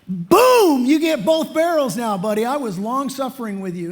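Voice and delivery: mock blowup. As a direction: play the fed-up disciple letting loose both barrels. Peter fed up after eight times.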